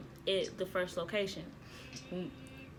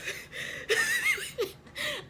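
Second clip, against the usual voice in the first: very high starstruck squeal; breathless squeal. Retold or imitated. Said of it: "I couldn't breathe at that point".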